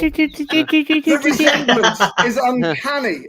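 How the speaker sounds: slow, deadpan, mock-serious. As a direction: draw it out like a pompous professor.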